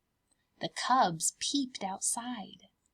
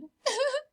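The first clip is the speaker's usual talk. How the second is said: high whimper. Acted. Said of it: "The cubs whimpered".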